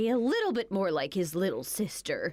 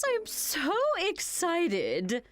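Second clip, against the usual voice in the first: excited; 9 semitones higher, much slower than usual. Acted. Thanks for buying the duplex.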